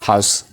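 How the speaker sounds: "house" as one syllable, how and is merged; contracted how's. Shown as a demonstration. Teacher showing learners the short form, merged single syllable. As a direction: run how-is together into "house". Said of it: "House jennee pronounce goona".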